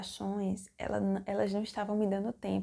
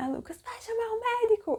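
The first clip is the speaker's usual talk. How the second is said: mock very high-pitched, loud, shrill yell; 5 dB louder than usual. Retelling screaming during labor for the doctor: retelling a shout. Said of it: "Eu dizendo".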